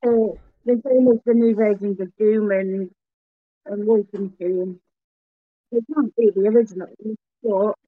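muffled, like speaking into a blackboard. Real, not acted. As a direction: talk with the mouth covered. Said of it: "I'm not the only one who can't hear you properly".

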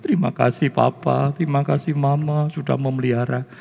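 imitated teary gratitude; a touch of weepy sincerity; mock tearful thanks. Child thanks parents before the wedding, mildly mock tearful. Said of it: "Ngomong mbek nangis".

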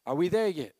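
put-on whiny kid. Echoing the child's whine.

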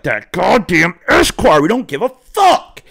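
slow, high, mocking put-on voice; defiant scoff. Guest scoffing at the hostess's Esquire brag, slow and high. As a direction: drag it out, sneering and high.

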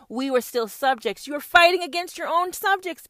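loud building rant; roaring rallying speech. Acted. Building rant about subjects.

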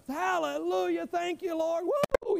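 rising praise that bursts into a high whoop; retold joyful shouting. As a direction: relive the moment you shouted for joy in church. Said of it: "But I, I started shouting".

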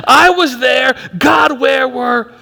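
loud, slow demanding cry; anguished shout. Retold or imitated. Pastor acting the writer accusing God, loud slow shout. Climax of quoted complaint.

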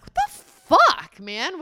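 high, loud, slow outburst; shocked reaction to the yell; startled. Retold or imitated. Wife voicing her shock at husband's yell: high startled outburst. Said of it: "And I'm like".

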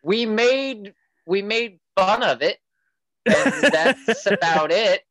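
breezy mock teen voice; imitating daughter. Daughter shrugging off the talk, mock high teen voice. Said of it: "He's like".

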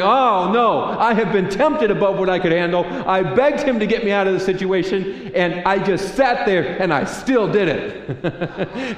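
loud, high protest, then slowing into a rueful laugh; a congregant complaining to God, loud, high and whiny; whiny believer. Retold or imitated. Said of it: "many of you are sitting there going".

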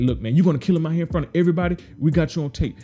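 heated challenge. Retold or imitated. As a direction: warn the cop he's being filmed. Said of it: "he's like".

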